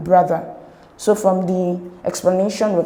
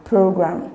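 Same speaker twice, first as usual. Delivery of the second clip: program, PRO stronger than gram; stress on first syllable. Shown as a demonstration. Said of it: "feel the stress on the first syllable".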